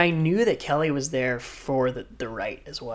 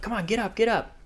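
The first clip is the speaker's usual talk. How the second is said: laughing urging; 7 semitones higher than usual. Retold or imitated. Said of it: "He started laughing, he's like".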